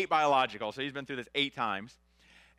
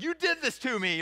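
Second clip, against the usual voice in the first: mild mock yell; 10 semitones higher than usual. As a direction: imitate the wife in labor blaming him, half-joking. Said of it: "she, she yells at me".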